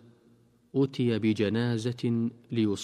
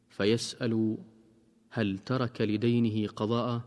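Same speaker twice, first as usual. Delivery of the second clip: measured, formal recitation of a hadith; hadith reading. Acted. Preacher reading a hadith to radio listeners, solemn. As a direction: read the tradition with solemn care.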